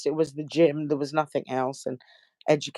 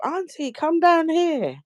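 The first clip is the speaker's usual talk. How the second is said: retold shout; 12 semitones higher, slower than usual. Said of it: "a young girl shouted up".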